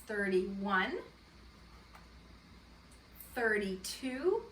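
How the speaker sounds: slow, drawn-out counting with long pauses. Shown as a demonstration. Teacher counting on with first graders, slow and deliberate. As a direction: count on slowly so children can follow. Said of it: "now let's count on our ones".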